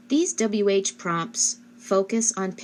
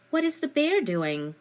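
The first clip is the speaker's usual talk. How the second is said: much higher, lilting question; asking the child; 8 semitones higher than usual. Shown as a demonstration. Parent quizzing child on prepositions, much higher question. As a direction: sing the question up to a small child. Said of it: "after you read it and say".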